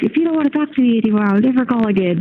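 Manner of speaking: high, fast, frantic outburst; mock freak-out. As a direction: rattle it off in a panic. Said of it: "I was gonna freak out and be like".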